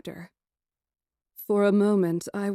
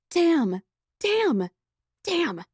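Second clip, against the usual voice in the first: rising frustrated damns, each higher; exasperated cursing; 9 semitones higher, 5 dB louder, much slower than usual. A narrator's reading. Heroine cursing her own mistake, exasperated. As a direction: curse under her breath, climbing.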